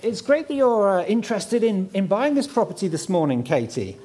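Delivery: gushing real estate agent. Pretend. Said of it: "do my best estate agent impression".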